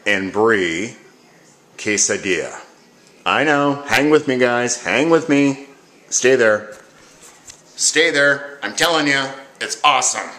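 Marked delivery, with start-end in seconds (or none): 3.2-10.3 pleading excited. Real, not acted. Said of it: "pleading to viewers".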